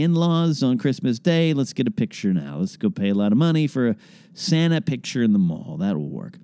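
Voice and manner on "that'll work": unvoiced sarcastic whisper; whispered deadpan aside. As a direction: drop to a dry whisper.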